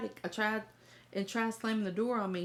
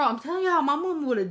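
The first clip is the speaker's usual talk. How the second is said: loud emphatic; 6 semitones higher, 7 dB louder than usual. Real, not acted. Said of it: "emphatic aside".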